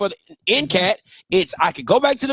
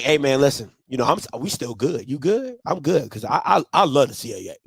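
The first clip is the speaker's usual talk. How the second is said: imitating Hampton; 9 semitones lower, 4 dB quieter, faster than usual. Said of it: "be like".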